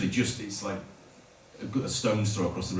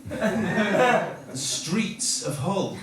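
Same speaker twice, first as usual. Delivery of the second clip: mock minstrel proclamation; 8 semitones higher, much slower than usual. Travelling minstrels address village peasants.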